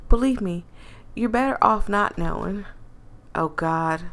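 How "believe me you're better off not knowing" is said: lightly voiced country accent; a touch of country twang. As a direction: put on a mild country accent. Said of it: "I'm messing up her accent".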